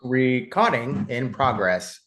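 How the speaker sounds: slow, stiff robot monotone; toy robot voice. Pretend. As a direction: speak like a toy robot, slowly. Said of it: "I am a robot".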